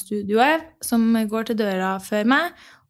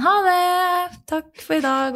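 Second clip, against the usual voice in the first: calling back; 7 semitones higher, slower than usual. Retold or imitated. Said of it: "alle roper tilbake sånn".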